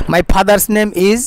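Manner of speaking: very slow, careful English reading; slow model reading. Shown as a demonstration. Teacher reading the sentence slowly to students. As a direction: read it word by word for the class. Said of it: "slow model reading of English".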